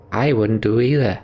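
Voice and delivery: lightly acted, emphatic warning; cautioning game character. Voices Bar's reply.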